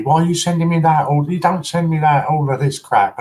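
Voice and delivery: high, fast, mildly outraged rant; retold indignant ranting; mock going loopy. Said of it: "she was going, "Loopy".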